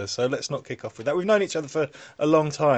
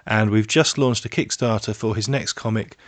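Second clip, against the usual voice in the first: podcast voice; 3 semitones lower than usual. Acted. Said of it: "Is that your podcast voice?".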